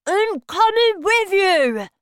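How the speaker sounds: talking through a mouthful of banana; mouth full. A narrator's reading. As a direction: speak round a full mouth. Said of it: "speaking with his mouth full of banana".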